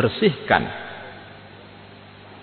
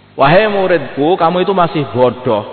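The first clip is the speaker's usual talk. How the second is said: higher, louder teacher scolding his pupil; stern teacher; 5 semitones higher, 5 dB louder than usual. Retold or imitated. Preacher voices a teacher calling his pupil foolish, stern and louder. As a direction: lecture the student from above. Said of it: "kata-katanya guru kepada muridnya".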